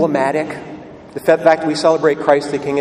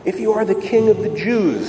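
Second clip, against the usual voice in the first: mock taunt pitched higher; a touch of a raised jeer, not full volume; soldiers calling out; 5 semitones higher than usual. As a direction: call it up like a jeering soldier. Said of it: "they called out".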